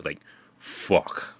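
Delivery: a hushed, stunned curse; awed whisper. Real, not acted. Picturing soldiers blown away as ashes, whispered curse. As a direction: breathe it out, barely voiced. Reacting to men burned to ash.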